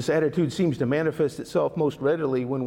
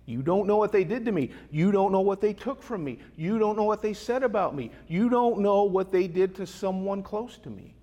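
mildly insistent, raised-pitch objection; acted protest; 3 semitones higher than usual. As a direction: voice an aggrieved objector, piling up complaints. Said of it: "we all hear this and we say".

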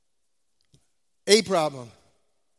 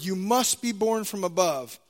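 "must" stressed, then the pitch falls away; 4 semitones lower than usual. Shown as a demonstration. Preacher highlighting one word of scripture, stress on "must". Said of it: "emphasizing the word must".

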